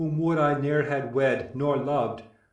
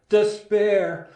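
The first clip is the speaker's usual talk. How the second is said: anguished cry; 7 semitones higher, 6 dB louder than usual. Acted. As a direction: despair cried out loud and high, falling at the end. Admetus laments on returning home.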